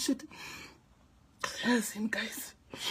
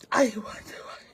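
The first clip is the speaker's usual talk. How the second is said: whisper; 3 semitones lower than usual. Real, not acted. Upset aside.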